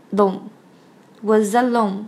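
WAS ALONE joined as wuh-za-lone; slow WAS ALONE, z carried into the vowel; linked sounds. Shown as a demonstration. Teacher shows was joining alone, linked sounds. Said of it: "was和alone连读成".

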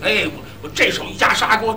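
ordinary talk, nothing marked

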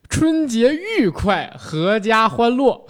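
high, very slow festive greeting; cheerful new year wishes. Pretend. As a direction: sing out the holiday wishes. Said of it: "我以为你说咱模仿的这个开场呢".

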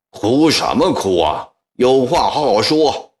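irritated telling-off of a crying woman; annoyed. A narrator's reading. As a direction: scold the weeping woman to stop. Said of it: "孙昌国烦了起来".

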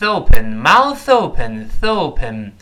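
"mouth open" run together, th sliding into open; slowly glue "mouth" onto "open"; linked MOUTH OPEN. Shown as a demonstration. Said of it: "跟那open自然连在一块儿".

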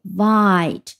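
vite said alone, drawn out with full stress; stressed syllable. Shown as a demonstration. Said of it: "它的重音在第二音节".

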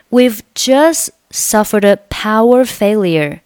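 "just" without its t, "suffered a" run together; dropped t, linking. Shown as a demonstration. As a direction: say "jus' suffer-duh" in one linked flow. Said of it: "这里just末尾不用发音".

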